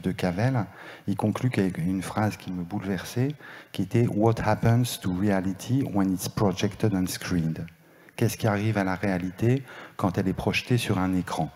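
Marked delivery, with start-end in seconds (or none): 4.1-7.6 "What happens to reality" read slowly in French-accented English. Real, not acted. Speaker apologizing to the audience for his French-accented English. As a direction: quote the English line carefully, with a French accent. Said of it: "j'ai un accent terrible".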